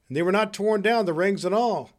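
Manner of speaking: high-pitched exclamation; crying out. Acted. Scrooge talking about his bed curtains, exclaiming. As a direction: exclaim it with relief. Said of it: "cried Scrooge".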